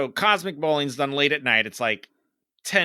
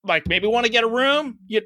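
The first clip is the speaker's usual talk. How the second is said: mock apology; 6 semitones higher than usual. Sarcastic confrontation with amorous couple.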